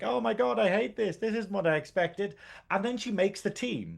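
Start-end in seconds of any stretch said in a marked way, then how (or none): 0.0-2.4 mock, held-in, rough, creaky half-scream. Retelling a show character's first tryout: imitating Sam screaming. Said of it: "she's screaming, and she's like".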